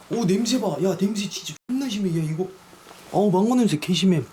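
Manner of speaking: loud disgusted outburst at the stench; shocked at smell. Real, not acted. Reacting to the reeking candy, loud disgust.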